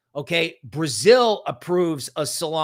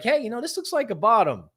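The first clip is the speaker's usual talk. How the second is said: I was like; 7 semitones higher, faster than usual. Retold or imitated. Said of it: "I was like".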